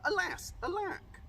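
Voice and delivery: high hammed-up wail; mock lament. Prince begging Cindy to stay, high hammed-up wail. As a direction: ham up the prince's despair. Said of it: "The prince cried".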